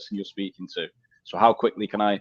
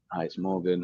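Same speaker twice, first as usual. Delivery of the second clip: quiet, low greeting; 4 semitones lower, 8 dB quieter than usual. Retold or imitated. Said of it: "someone saying".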